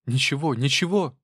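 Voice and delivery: quick, high eager reply. Acted. Wife eagerly answering husband, high. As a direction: jump in eagerly. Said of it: "с живостью подхватила".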